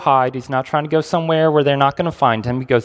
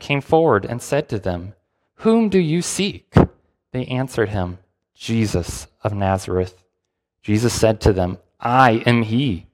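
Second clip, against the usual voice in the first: measured Bible reading to the group; scripture reading. Acted. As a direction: read the passage with weight. Reads scripture aloud.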